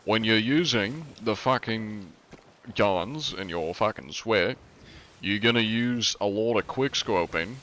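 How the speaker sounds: mock Aussie gamer accent; Australian accent. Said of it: "We're just gonna talk in an Australian accent".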